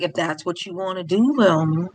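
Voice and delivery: lightly voiced over-calm husband; imitated unruffled calm. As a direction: give in mildly, without any fight. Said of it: "becoming even more calm".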